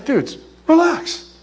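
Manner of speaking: drawn-out, high Californian surfer-style reassurance; Californian dude. Acted. Jesus calming the apostles, hammed-up Californian. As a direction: stretch it like a laid-back Californian. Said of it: "obviously I'm Californian this up".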